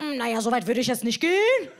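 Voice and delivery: lightly voiced hesitant teacher; a hint of a puzzled schoolteacher; confused teacher. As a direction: hedge it, with a rise at the end. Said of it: "Klassenlehrerin schaut mich nur so verwirrt an".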